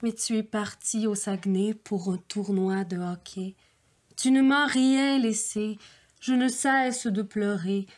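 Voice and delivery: tender, overwrought poetry reading; hammed-up lovesick verse; mock poem recital. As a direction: read it like a lovesick poet pining.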